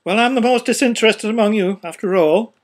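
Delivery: a haughty merchant boasting; pompous businessman. A narrator's reading. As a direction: puff yourself up as the least interested. First speaker voiced.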